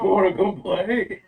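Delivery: slow, loud, booming magic voice. Acted. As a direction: boom it out slowly across the woods. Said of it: "this big booming voice".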